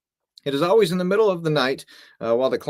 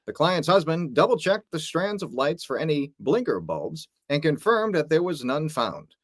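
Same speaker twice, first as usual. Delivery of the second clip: infomercial voice. Pretend. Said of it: "You sound like an infomercial".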